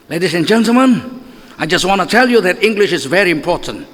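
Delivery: lightly English-accented address; a hint of a British English accent. Shown as a demonstration. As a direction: say it like a proper British speech opener. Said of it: "enak dengernya karena logatnya Inggris".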